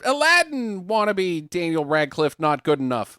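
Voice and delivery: high, sneering villain voice; mock villain voice. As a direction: taunt him as a smug villain. Voicing Set in retelling.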